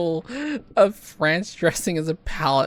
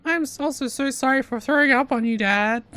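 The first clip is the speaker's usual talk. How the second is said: surfer bro voice; 9 semitones higher than usual. Acted. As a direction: play a laid-back surfer bro. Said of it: "a surfer bro voice".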